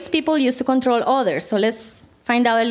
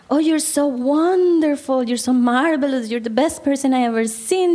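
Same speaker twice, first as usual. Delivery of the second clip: gushing flattery; 2 semitones higher than usual. Acted. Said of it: "appealing to their ego".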